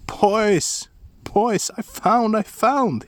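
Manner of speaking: high, slow, loud calls; excited shout. A narrator's reading. Askeladd shouting to his brothers, high drawn-out call. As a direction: hail the brothers with glee. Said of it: "he shouted".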